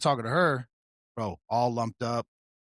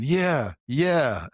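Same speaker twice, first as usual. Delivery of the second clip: imitating deputy; 4 semitones higher, 4 dB louder than usual. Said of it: "riding his bike around going".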